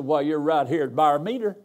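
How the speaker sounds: lightly imitated Arkansas country woman's accent. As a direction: mimic a local lady's country accent on "Byermeter". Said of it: "I can't say it like she said".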